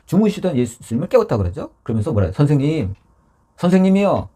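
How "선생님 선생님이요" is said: raised, higher voice calling for help; mock panicked yell. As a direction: imitate disciples crying out to their teacher. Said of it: "소리를 막 지른 거죠".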